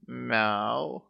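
cat cry between hiccups; meow, caught by a hiccup. A narrator's reading. Cat relapsing after the remedy, hiccuping meow. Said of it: "нервной икотой".

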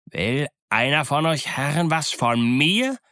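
challenging roar, somewhat held back; bellowing challenge. Acted. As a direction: bellow it with a steep rise at the end. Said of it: "brüllte Silver".

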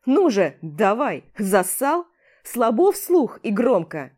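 loud jeering dare, slowing at the end; goading shout. Acted. Hero dares the rival to repeat the insult, loud taunt. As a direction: taunt him loudly to say it.

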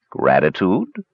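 low, grumbled question; grumbling stranger. Acted. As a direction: grumble the word in disbelief. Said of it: "grumbled the hooded stranger".

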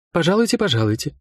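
hurried. Acted. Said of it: "заторопилась она".

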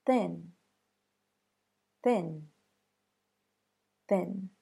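"Thin" with an airy unvoiced th; "Thin" with the tongue tip between the teeth; "Thin" with a crisp breathy th; unvoiced TH demo. Shown as a demonstration. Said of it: "Next example".

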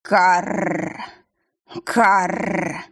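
long rough bird croaks; raven caw. A narrator's reading. Raven calling the witch back from memories. Raven caws, startles her.

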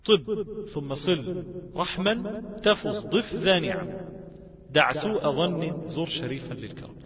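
slow, measured recital of a mnemonic line; verse recitation. Shown as a demonstration. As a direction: recite the verse word by word, slowly.

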